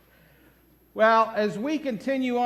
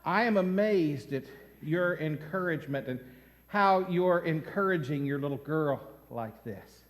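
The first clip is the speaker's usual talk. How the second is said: admiring stranger; 6 semitones lower, 5 dB quieter than usual. Retold or imitated. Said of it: "he says".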